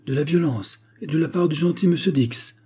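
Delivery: lightly hammed-up astonishment; exclaimed protest. A narrator's reading. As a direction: exclaim as if scandalised. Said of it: "s'écria Vark".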